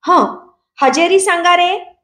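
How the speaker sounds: village schoolteacher voice. Acted. New teacher calls the class to answer roll, schoolmaster voice. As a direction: drawl it like a Marathi schoolmaster taking roll. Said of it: "तसा आवाज मी काढला होता".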